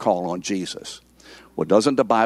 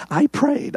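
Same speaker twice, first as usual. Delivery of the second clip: "I" pitched high, mock insistence; stress on I. Preacher mimicking a believer's boast, high-pitched "I". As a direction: punch up a high, self-important "I". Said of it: "it's on me".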